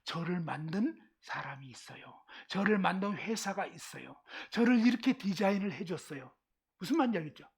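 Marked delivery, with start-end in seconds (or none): 0.0-6.3 soft, low pretend voice for a cup; talking cup. Cup telling listeners someone made it, in a soft pretend voice. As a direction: speak quietly as if you were the cup. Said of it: "이 컵이 진짜 하고 싶은 얘기는".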